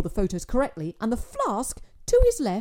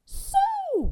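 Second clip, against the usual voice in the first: a drawn-out, put-on casual So; forced nonchalance under nerves; trying to sound casual; 4 dB louder than usual. A narrator's reading. Father among aliens on a platform, faking calm. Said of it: "trying to sound insouciant".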